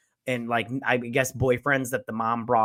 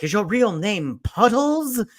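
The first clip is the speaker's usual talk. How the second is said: slow, higher put-on Southern drawl; mock Southern accent; 7 semitones higher, 4 dB louder, slower than usual. Arthur questioning Gary about his name, mock Southern accent. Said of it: "putting on this Southern accent".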